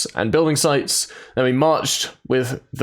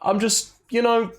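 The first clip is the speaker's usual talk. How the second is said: squeaky self-mockery; 10 semitones higher than usual. Real, not acted. Playful self-mocking riff.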